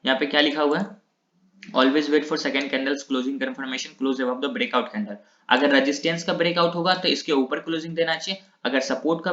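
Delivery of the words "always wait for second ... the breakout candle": very slow, word-by-word reading of the rule. Shown as a demonstration. Teacher dictates the second rule to students, very slow. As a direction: dictate it slowly for the class to note down.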